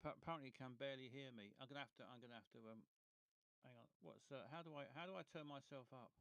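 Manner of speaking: faint, tinny and far away; like a tin can telephone; tin can phone. Real, not acted. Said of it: "It's like you're talking through, a tin can and a string".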